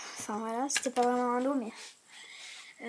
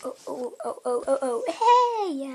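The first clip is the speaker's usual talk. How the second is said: laughing; 2 semitones higher, slower than usual. Real, not acted. Startled by the cat.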